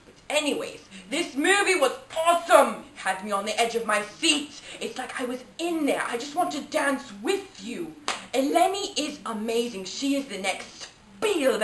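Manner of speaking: mock British reviewer accent; put-on British accent. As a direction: gush like a British critic, lively ups and downs. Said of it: "I've acquired a British accent".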